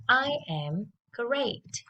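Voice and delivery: slow, clear drill sentence; slow it down so kids can copy; slow model. Shown as a demonstration. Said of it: "let's listen and repeat after me".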